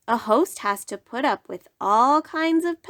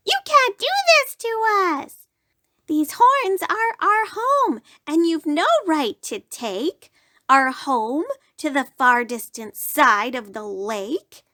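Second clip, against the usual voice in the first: high, fast, indignant squeal; shrill guests protesting; 6 semitones higher than usual. Acted. Guests protest to the moose, high fast squeal. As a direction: squeal like pests losing their home. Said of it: "screamed his guests".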